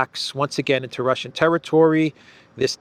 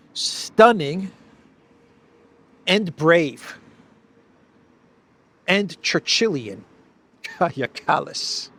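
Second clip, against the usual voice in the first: mock praise; 4 semitones higher, slower than usual. Real, not acted. Sarcastic praise of Kallas.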